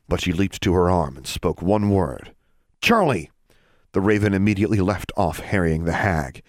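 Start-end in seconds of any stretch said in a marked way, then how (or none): 2.8-3.3 calling out. Acted. Calling her raven.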